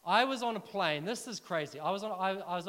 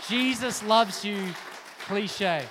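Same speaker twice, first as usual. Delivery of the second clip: slow, louder, every word weighed; slow emphasis; 6 dB louder, much slower than usual. Real, not acted. Preacher to congregation, drawing out the phrase slowly and louder. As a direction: let each word land slowly. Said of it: "All of that from a little".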